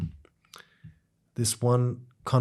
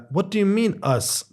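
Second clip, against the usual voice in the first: retold surprised question, pitched higher; 8 semitones higher than usual. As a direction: jump up high in disbelief. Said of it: "the woman asks in surprise".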